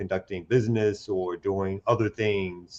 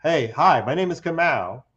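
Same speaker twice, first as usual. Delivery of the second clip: lighter voice; 6 semitones higher, 4 dB louder than usual. Shown as a demonstration. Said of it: "a little lightning there".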